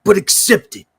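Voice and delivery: Randy Savage impression. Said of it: "Randy Savage comes back from the dead".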